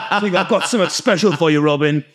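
playful put-on Cockney accent; mock Cockney. Repeating the gift-giver's line after laughing, mock Cockney. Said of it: "He's not a Cockney".

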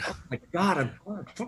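mimicking a slow Mississippi voice, half-whispered; lazy Southern mock, trailing off soft; mock Mississippi drawl. Mocking a Mississippi speaker for a friend, in a slow drawl. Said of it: "Mississippi slow is just like".

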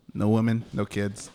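a hint of a muddled German accent; lightly put-on, uncertain German-ish accent; vaguely German accent. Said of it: "I don't know what accent I'm doing".

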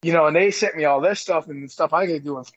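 talking between burps; gassy, burping while speaking. Real, not acted. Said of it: "Excuse me, I keep burping".

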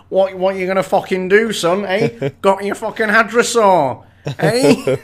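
street scally. Acted. Young T-Rex taunts the big one, street scally swagger. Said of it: "street scally material".

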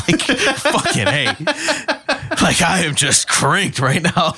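high, slowed, laughing buzz; adrenaline rush. Retold or imitated. Telling a friend how cranked up he felt after the fight. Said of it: "all adrenaline".

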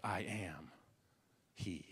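soft, low near-whisper; quiet awe; hushed. Acted. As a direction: say it under your breath. Hushed retelling of Jesus.

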